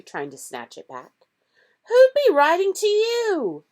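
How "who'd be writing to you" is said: high, loud sneer. A narrator's reading. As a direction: sneer it with contempt. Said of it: "sneered Uncle Vernon".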